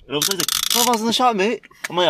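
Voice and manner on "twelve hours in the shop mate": high-pitched mock Australian accent; imitating an Australian, pitch lifted; full Australian. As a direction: switch suddenly into broad Aussie.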